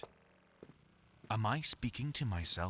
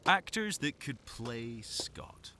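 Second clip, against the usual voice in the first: dramatic whisper; 4 semitones higher, much slower than usual. Acted. Announcing a list title.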